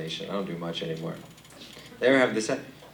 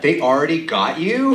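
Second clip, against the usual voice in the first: mock alarm; 7 semitones higher, 6 dB louder, slower than usual. People voiced, alarmed.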